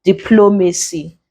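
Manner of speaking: DIPLOMACY with the stress on PLO; antepenultimate stress. Shown as a demonstration. Teacher showing where stress is, DIPLOMACY stressed on PLO. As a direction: stress the second syllable of "diplomacy". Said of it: "that's where the stress is in that word".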